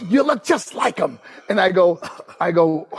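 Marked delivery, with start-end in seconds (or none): 0.0-1.2 imitating Dusty. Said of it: "He goes".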